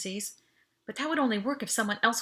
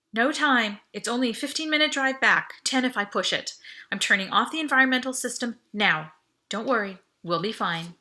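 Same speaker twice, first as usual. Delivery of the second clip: reassuring; 3 semitones higher, 4 dB louder than usual. Acted. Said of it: "added confidence to my voice".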